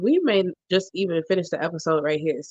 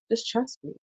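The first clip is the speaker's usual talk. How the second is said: sweetly; 4 semitones higher, 6 dB quieter than usual. Retold or imitated. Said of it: "ever so sweetly".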